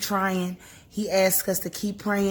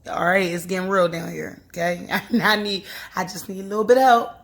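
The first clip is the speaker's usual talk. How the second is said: casual prayer; 3 dB louder than usual. Shown as a demonstration. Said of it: "I talk just like this".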